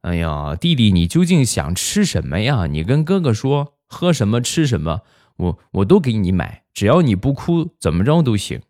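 mock-exasperated kid, pitch swinging upward; helpless big brother. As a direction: coax a crying little brother at wits' end. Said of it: "很是无奈的就说".

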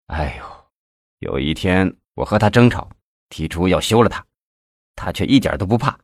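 subdued, troubled recounting; mildly anxious; worried. A narrator's reading. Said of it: "李先法担心地说".

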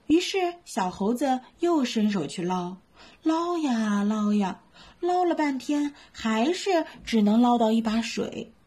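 lively bedtime story reading; storytelling for kids. A narrator's reading. Mom reading a bedtime story to little ones, lively.

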